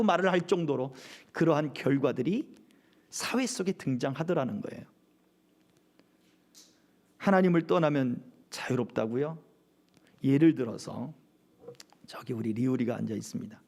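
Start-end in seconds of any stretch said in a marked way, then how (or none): none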